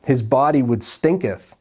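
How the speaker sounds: hammed-up archaic "stinketh" and "wouldeth" with a laugh; mock King James English. Preacher joking to his congregation, mock archaic. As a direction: play at old Bible English, tongue in cheek. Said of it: "in the King James Version".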